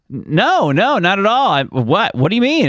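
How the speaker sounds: baffled denial, pitch jumping up; retold confusion. Wife denies she is joking, confused. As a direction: imitate a puzzled, protesting wife. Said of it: "a moment of, like, confusion".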